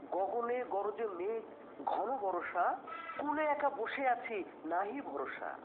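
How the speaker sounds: slow, mournful recitation; sad poem recital. Shown as a demonstration. কবি ছাত্রকে দুঃখের সুরে আবৃত্তি দেখায়. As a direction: read it with sorrow, slowly. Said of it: "কবিতা পড়তে হয় রস দিয়ে".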